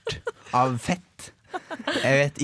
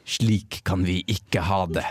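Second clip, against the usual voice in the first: mock-dramatic headline; 3 semitones lower, slower than usual. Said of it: "veldig dramatisk sak. Overskrift".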